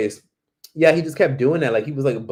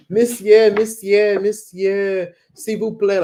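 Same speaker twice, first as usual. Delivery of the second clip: high insistent plea in French, imitated; begging kid; 7 semitones higher, 6 dB louder, much slower than usual. Six-year-old blocking a tourist, begging in high French. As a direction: whine it like a small boy selling tissues. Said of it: "he literally had said to me".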